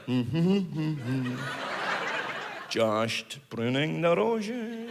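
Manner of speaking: low, soft Sean Connery murmur, pottering about; Sean Connery gardening. Retold or imitated. Sean Connery pottering in his Bahamas garden, low soft murmur. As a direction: hum contentedly to yourself while pruning roses, low and soft. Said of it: "he's like".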